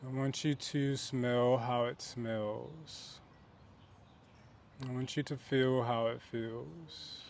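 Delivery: unhurried meditation guide, pausing between phrases; guided meditation. Real, not acted. Host guiding listeners to picture their safe place, guided meditation. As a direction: lead them gently inward, stretching key phrases.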